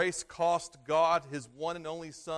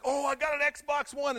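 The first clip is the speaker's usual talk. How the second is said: high, bright burst of joy over the Xbox One; delighted gift opener; 8 semitones higher, 5 dB louder than usual. Retold or imitated. Kid opening a Christmas present, thrilled and much higher. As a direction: squeal it like a kid tearing off wrapping paper.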